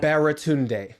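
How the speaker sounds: "Baratunde" said clearly by its owner; own name said right. Shown as a demonstration. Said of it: "say your name for me one more time".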